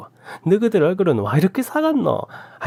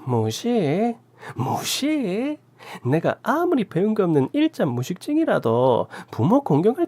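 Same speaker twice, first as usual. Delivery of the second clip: furious rant; 9 semitones higher than usual. A narrator's reading. Aunt raging at the couple and calling out her nephew. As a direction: tear into them, then threaten the nephew.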